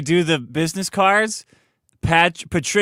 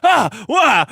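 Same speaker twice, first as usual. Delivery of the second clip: mock bewildered; 7 semitones higher, 4 dB louder than usual. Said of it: "She's like".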